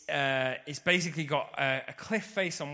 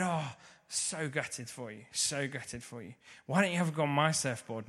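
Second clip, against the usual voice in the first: calm, collected. Retold or imitated. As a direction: ease the blow gently, like an older friend. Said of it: "really, really calm, collected".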